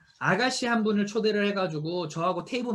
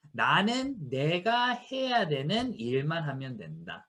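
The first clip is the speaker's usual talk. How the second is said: slow quoted motto; 2 semitones lower, slower than usual. Shown as a demonstration. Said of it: "무슨 뜻이에요?".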